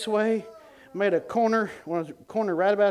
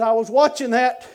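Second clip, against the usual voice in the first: loud, raised astonished retelling; astonished friend; 7 semitones higher, 10 dB louder than usual. Retold or imitated. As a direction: exclaim it in amazement, high and loud. Friend's amazed reaction acted out.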